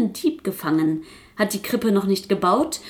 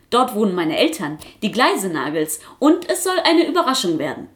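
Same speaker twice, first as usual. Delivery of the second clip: much higher and louder, protesting puppet voice; insistent puppet; 8 semitones higher, 4 dB louder than usual. Acted. Quasselkasper pleading with Frau Pribam for wings, high and loud. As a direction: refuse loudly like an upset puppet child.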